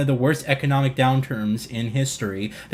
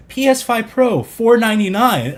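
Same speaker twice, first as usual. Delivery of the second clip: higher, louder hyped announcement; mock hype; 8 semitones higher, 7 dB louder than usual. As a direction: read the rumored price like a hype post. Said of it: "People were tweeting images saying".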